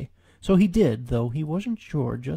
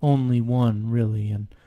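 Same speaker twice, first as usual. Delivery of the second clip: slow, sighing donkey voice; weary Eeyore; 4 dB louder, slower than usual. Acted. Eeyore hearing the sound approach, slow and weary. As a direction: droop through every line.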